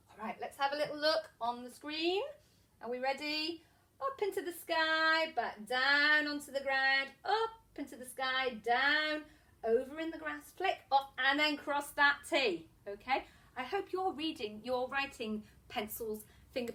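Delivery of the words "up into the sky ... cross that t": rhythmic teacher patter with stretched key words; handwriting patter. Shown as a demonstration. Teacher guides young pupils through letter strokes, rhythmic handwriting patter. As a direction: talk a pencil through each stroke. Chants letter formation while demonstrating.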